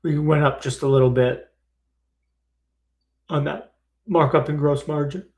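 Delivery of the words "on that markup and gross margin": words pushed through a burp; speaking around a rising burp; talking while burping. Real, not acted. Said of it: "Sorry, I'm burping up dinner".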